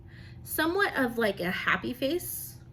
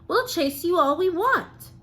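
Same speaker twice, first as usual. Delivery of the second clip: higher, louder mock crowd retort; pushy crowd; 7 semitones higher, 6 dB louder than usual. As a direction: play the cheeky mob of fans. Crowd of fans answers back.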